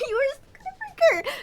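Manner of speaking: high, strained shout at the screen; real outraged yell. Real, not acted. Player scolding Kroven on screen, high outraged yell. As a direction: let it crack with outrage.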